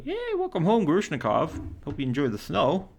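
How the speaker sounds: a high mock-cheery yay; sarcastic cheer. Real, not acted. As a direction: tease him with fake enthusiasm. Teasing cheer about snow.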